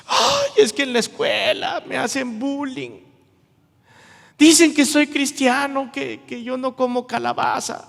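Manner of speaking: put-on high, whining teenage complaint; whiny teen. Teen complaining about school bullying, whiny. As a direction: whine like a bullied teen. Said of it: "me imagino a un joven".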